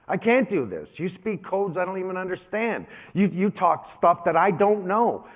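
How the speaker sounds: dad admitting his son outdid him; overwhelmed dad. Retold or imitated. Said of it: "He goes".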